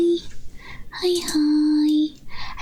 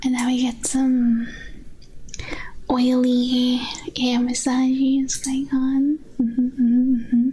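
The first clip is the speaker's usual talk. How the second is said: ASMR whisper; 2 semitones lower than usual. Acted. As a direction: whisper it gently into the mic. ASMR trigger narration.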